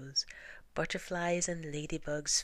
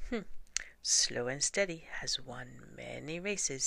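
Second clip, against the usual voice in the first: wise Mister Fox. Acted. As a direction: deliver the moral like a sage. Mister Fox gives the moral.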